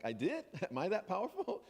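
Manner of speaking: laughing mock surprise; amused disbelief. Answering the accusation, in amused laughing disbelief. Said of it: "I'm like".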